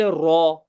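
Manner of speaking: रॉ said full-mouthed and heavy, with the vowel rounded like aw; रॉ with a deep, rounded vowel. Shown as a demonstration. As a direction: give रॉ the thick, heavy R of tajweed. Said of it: "मोटा पढ़ना है कि पतला पढ़ना है".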